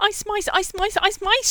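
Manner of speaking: shrill, very high, very loud shriek. A girl flees toward the portrait, shrieking at the fat lady. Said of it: "she shrieked at the fat lady".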